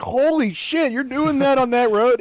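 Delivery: very high, loud shocked outburst; high-pitched American gasping at road speeds; shocked disbelief. Retold or imitated. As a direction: squeal it like you can't believe the speed. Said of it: "and you're like".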